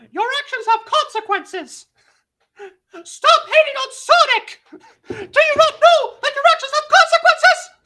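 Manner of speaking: shrill, very loud, very high cartoon mouse voice. Performing a line in Mickey's voice after another speaker asks: Mickey voice. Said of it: "in Mickey's voice?".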